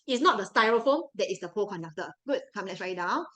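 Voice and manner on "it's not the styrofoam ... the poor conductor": ordinary delivery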